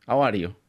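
"How" said as "ow"; "How are you" with no H sound; dropped H. Shown as a demonstration. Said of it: "more comfortable to me".

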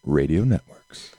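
deep, smooth station ID read; radio announcer. Acted. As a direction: announce it like a DJ at the top of the hour. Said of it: "Bill, will you do the honors?".

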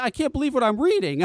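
half-laughing, stunned at what he reads; laughing disbelief. Retold or imitated. Reading a vaping candidate site that leaves out his candidate, laughing disbelief. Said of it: "So I'm like".

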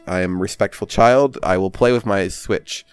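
halting mock-polite recital; lightly voiced dutiful child. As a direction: recite it like an obedient kid, haltingly.

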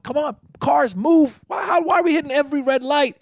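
high-pitched, exasperated traffic rant; frantic inner frustration. Retold or imitated. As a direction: plead angrily with the cars. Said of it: "This is all that's going on inside me".

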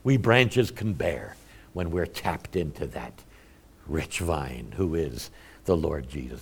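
grand opening on "Oh", then sinking and slowing; quoting Spurgeon. Retold or imitated. Preacher quoting Spurgeon to his church, reverent. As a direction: relish the preacher's words with awe. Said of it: "I think it was Spurgeon who said".

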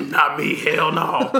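put-on light southern accent, emphatic refusal; mock southern twang, just a hint; a little southern. Podcast host joining the bit, slight southern accent. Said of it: "I went a little southern".

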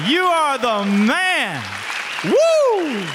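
cheering. Real, not acted. Son cheering his father on his birthday, loud and high. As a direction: whoop it up for Dad's birthday.

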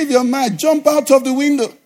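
high-pitched mock retort; imitated cheeky comeback; retold retort. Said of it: "He said".

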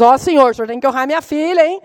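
mock-scolding, rising plea; half-joking anxious demand, pitch climbing at the end; arguing with God. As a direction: bargain insistently with the Lord. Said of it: "Depois você fica brigando com Deus".

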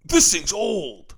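lightly put-on film character, drawn out slowly; slow, stretched-out movie-line impression; Mal Cell impression. Co-host showing off an actor impression, lightly mimicked drawl. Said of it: "That's my Mal Cell impression".

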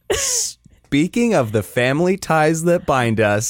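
slow, overdone segue voice; mock dramatic transition. Shown as a demonstration. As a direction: ham up the segue slowly. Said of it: "That's why you do the transitions".

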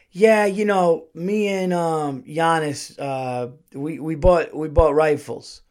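stalling with ums, then coming out with it; hesitant confession. Retold or imitated. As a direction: act out a husband reluctantly owning up. Reluctant confession to wife.

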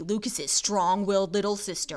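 slow dramatic trailer read; movie trailer voice. Shown as a demonstration. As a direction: announce it like a film trailer. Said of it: "That's my movie voice".

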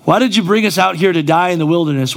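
quick, lightly hammed-up whine of "why did you bring us out here"; fast mock lament aimed at God; mock whining complaint. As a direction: rattle off the grumble like a sulking believer. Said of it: "we can act like we don't talk like this".

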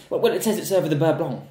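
high, loud, slowed-down mock customer voice; lightly put-on fussy diner raising a complaint. Imitating a pub customer querying the gravy, mock fussy. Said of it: "she's like".

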